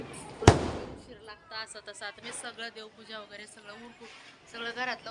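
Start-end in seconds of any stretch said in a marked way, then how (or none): 0.0-1.5 loud, slow mock scold from older sister; mock scold, loud and drawn out; retold scolding. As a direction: re-enact didi yelling about being late. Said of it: "दीदी मला ओरडायला लागली".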